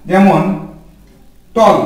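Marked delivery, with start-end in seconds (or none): 1.6-1.8 টল said in one quick beat; one-beat word. Shown as a demonstration. Teacher showing students a one-syllable word. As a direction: clip টল into a single syllable. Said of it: "একবারে উচ্চারণ করলাম টল".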